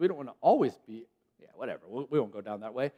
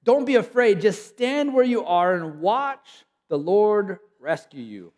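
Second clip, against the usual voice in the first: louder, higher, slowed proclamation; preaching emphatically; 4 semitones higher, 5 dB louder, slower than usual. Real, not acted. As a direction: drive the promise home. Preaching the promise.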